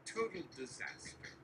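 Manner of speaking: a hint of Trump scolding an aide; brisk boastful Trump bluster; lightly voiced Trump. Trump lectures nervous Barry, lightly voiced.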